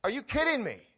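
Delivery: high, loud astonishment; can't believe it; amazed disbelief. Pretend. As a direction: reader stunned by what John says. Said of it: "And you go".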